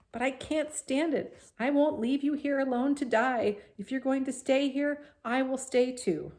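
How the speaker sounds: desperate plea. A narrator's reading. Wilbur refusing to leave Charlotte, high anguished plea. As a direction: beg her not to leave.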